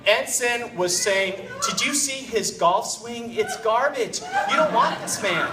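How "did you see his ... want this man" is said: raised, indignant put-on relative; mock attack. Relative attacking the niece's fiancé at dinner, mock indignation. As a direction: tear into him in a hammed-up way. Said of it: "starts attacking Andrew".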